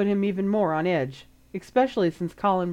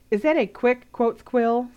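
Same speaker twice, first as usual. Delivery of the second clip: sudden suspicion; 4 semitones higher, 3 dB louder than usual. Acted. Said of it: "said Jenny suddenly".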